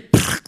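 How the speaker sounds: "prac" seco y sin voz; chasquido de salto imitado. Retold or imitated. (chasquido imitado de un salto)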